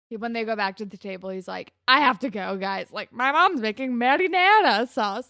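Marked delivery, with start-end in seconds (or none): 1.9-5.3 imitated excuse with Italian accent on "marinara". Retelling Marco's excuse to leave, mock Italian accent. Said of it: "he puts, like, the Italian accent on the Italian words".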